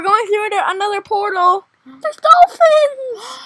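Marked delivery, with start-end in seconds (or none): 1.9-3.4 high, drawn-out exclamation; stretched, higher cry of delight; excited squeal. Real, not acted. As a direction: call out a thrilling sight. Spots dolphins on ride.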